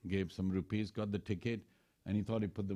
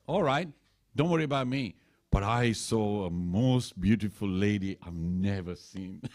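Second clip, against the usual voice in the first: voiced Shurpanakha; 5 dB louder than usual. Shurpanakha tempting Ravan.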